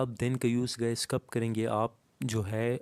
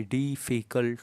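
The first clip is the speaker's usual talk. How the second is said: डिफ़िकल्ट stretched into डि-फ़ि-कल्ट; split into syllables. Shown as a demonstration. Teacher counts three syllables in the example, डि-फ़ि-कल्ट drawn apart. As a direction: sound out डिफ़िकल्ट in three distinct beats. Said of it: "three syllable का है".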